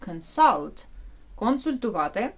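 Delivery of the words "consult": Consult with a weighted SULT; teacher models Consult, stress at the end; stress on second syllable. Shown as a demonstration. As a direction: keep CON light and stress SULT in Consult. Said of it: "Наголос на А".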